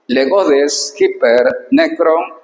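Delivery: slow, careful reading of ancient Greek. Shown as a demonstration. Teacher reading the Greek verse to students, slow and careful. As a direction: read each word apart for the students.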